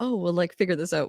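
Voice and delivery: ordinary talk, nothing marked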